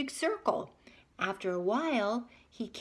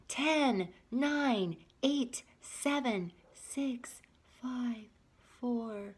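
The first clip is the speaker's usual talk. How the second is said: sleepy countdown; 4 semitones higher, much slower than usual. Acted. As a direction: count down as sleep takes over. Second countdown fading.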